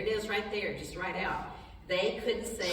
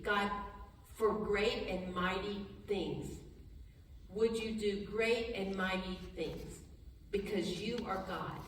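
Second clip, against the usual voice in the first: soft prayer; 4 dB quieter, slower than usual. Shown as a demonstration. Pastor models a prayer.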